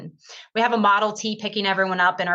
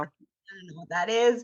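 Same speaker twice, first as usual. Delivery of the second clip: laughing through the words; confessing she knows nothing about bourbon, laughing; laughing admission; 4 dB quieter than usual. Retold or imitated. Cindy telling the client she doesn't know the bourbon, laughing.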